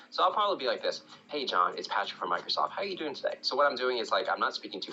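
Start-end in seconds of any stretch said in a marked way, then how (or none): 1.3-3.4 relaxed, cool cold-call greeting; measured pace, calm with some energy; calm but assertive. Shown as a demonstration. Cold caller opening with John, calm and assertive. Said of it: "cool, relaxed, calm, but assertive tonality".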